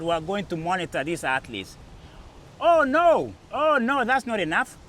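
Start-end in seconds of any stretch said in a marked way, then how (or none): 2.6-4.8 mock protest. Mock protest in retold story.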